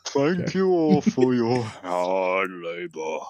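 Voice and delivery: slow Australian princess voice; lightly done Aussie royal; Australian accent. Acted. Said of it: "She's Australian too".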